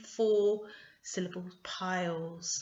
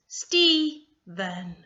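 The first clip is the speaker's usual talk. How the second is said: STEPHEN loud, split into two beats; syllable by syllable; 8 dB louder than usual. Shown as a demonstration. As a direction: break STEPHEN into Ste, pause, phen. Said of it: "you should be able to hear two sounds".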